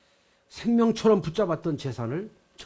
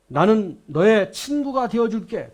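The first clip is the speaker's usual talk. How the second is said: warm voice; 5 semitones higher, 7 dB louder, slower than usual. Acted. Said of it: "따뜻한 마음으로, 음성으로".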